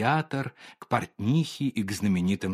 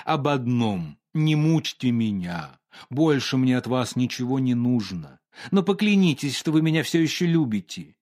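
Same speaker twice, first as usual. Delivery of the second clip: mild pleading. Acted. Painter begs Olga to swear she still loves him, pleading. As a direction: beg her, hand on heart. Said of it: "умоляюще и приложив руку к сердцу".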